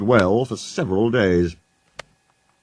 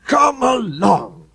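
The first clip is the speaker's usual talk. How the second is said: puffing engine; 11 semitones higher, much slower than usual. A narrator's reading. Sir Handel puffing at the coaches to hurry. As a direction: puff it in rhythm. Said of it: "he puffed".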